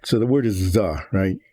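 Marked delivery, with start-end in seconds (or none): 0.2-0.3 THE said as "thuh", with a neutral vowel; THE with an uh sound; standard "thuh". Shown as a demonstration. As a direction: say THE as "thuh", not "thee". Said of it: "T H E, the, it's pronounced the".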